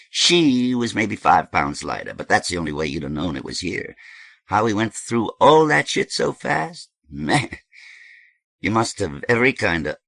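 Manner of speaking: lightly voiced, emphatic gossip; lively character, amazed at the speed; animated dope host. Voices Thirteen in story.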